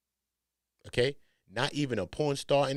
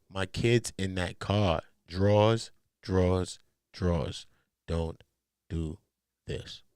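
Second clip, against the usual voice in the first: mock pleading; 4 semitones lower, much slower than usual. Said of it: "Wack pleaded and said".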